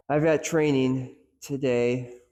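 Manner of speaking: got hit firmly, slow delivery; stress on got. Shown as a demonstration. Coach demonstrating stress on got, slow emphasis. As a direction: land hard on got. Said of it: "putting the emphasis on each different word".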